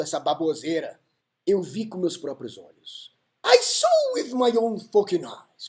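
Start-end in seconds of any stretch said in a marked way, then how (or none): 3.4-5.7 Samus. Retold or imitated. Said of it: "como diria o Samus".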